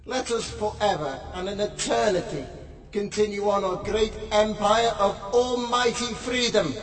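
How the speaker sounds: intoned, steady prayer reading; solemn prayer. Acted. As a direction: lead the congregation in prayer. Leads a prayer.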